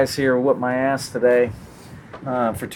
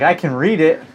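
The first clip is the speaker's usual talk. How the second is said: mimicking daughter; 6 semitones higher than usual. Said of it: "She's like".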